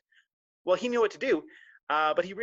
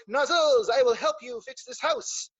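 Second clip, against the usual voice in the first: higher, slow, earnest offer; eager squirrel voice; 7 semitones higher, slower than usual. Acted. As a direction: squirrel proudly volunteering. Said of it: "Jean-Claude ... is like".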